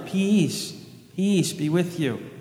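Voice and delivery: a slow, soothing blessing; gentle angelic greeting. Shown as a demonstration. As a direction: peace offered tenderly. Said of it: "The archangel Gabriel to Mary".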